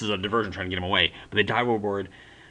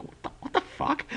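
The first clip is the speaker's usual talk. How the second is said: laughing disbelief; 5 dB quieter than usual. Retold or imitated. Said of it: "just completely".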